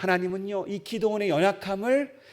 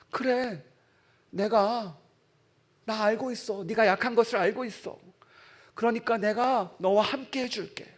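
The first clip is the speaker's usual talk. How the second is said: reassuring God's voice; 2 semitones higher than usual. Acted. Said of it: "하나님이 말씀하세요".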